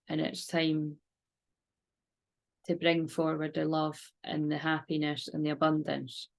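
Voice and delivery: calm, steady meditation voice; guided meditation. Acted. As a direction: lead a gentle visualisation. Guided visualisation and prayer.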